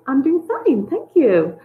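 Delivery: "I'm doing fine" lifted high, then "thank you" settles; a bright, upbeat answer. Shown as a demonstration. Teacher demos another way of saying the reply. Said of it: "so many different ways a person can say that".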